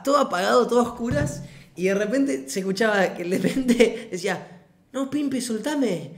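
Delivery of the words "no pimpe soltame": drawn-out, higher mock plea; slow, pleading imitation of a friend; sleep-talking protest. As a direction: whine it like he's being touched. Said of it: "como que lo estaba tocando".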